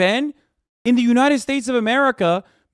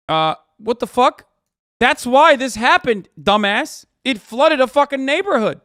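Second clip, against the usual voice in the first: louder, exasperated outburst; angry outburst; 4 semitones higher, 4 dB louder than usual. Real, not acted. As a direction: blow up at how dumb it is. Outraged rant at the argument.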